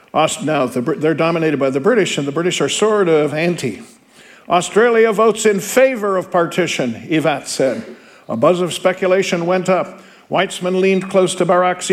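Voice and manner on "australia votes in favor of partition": delegate's formal answer. Acted. Teacher voicing the delegate casting his vote, formally. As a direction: declare the vote to the assembly.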